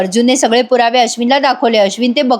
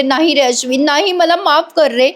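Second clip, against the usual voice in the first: mock tearful plea, rising higher; imitated crying; 3 semitones higher than usual. Priya begging Ashwin's forgiveness, mock crying. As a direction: lightly act a weeping apology. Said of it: "Priya खूप रडते आणि म्हणते".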